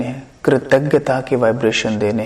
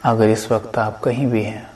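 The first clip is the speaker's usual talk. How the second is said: guided meditation. Acted. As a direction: lead listeners gently inward, unhurried.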